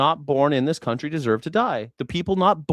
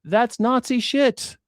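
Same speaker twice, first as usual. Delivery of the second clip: heated rant; 6 semitones higher than usual. Real, not acted. Angry rant continues.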